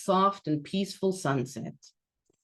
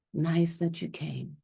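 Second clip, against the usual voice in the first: retold whisper; 2 semitones lower, 5 dB quieter than usual. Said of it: "gently whispers, barely audible".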